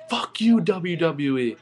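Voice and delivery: high-pitched mock-angry outburst; retold outrage. Retells his angry reaction at commercial.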